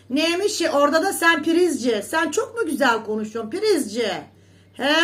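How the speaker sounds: high, loud mocking call; scornful jab. Real, not acted. Calling out the rival prizci with loud scorn. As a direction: sneer at her name.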